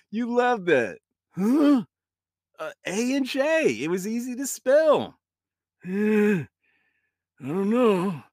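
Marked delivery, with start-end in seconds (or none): 0.1-5.2 put-on old grandpa voice. Grandpa ghost voice.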